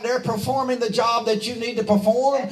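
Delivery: urgent, rousing pulpit cadence; fervent preaching. Real, not acted. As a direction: preach it up high with rising fervor. Preaches in rising fervor.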